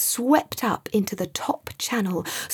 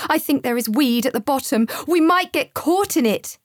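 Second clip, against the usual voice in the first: rising, louder frightened yell; 5 semitones higher, 4 dB louder than usual. Acted. Terrified boy yelling to Sam, panicked. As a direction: panicky yell about the weed. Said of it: "he yelled".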